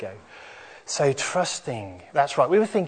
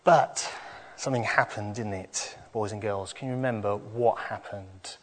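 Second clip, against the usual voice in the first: put-on lively higher children's storyteller; kids show host; 5 semitones higher than usual. Children's talk, higher animated voice.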